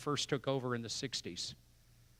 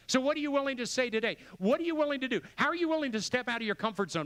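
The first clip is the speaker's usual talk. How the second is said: rousing challenge; 8 semitones higher than usual. Real, not acted. Preacher's climactic challenge.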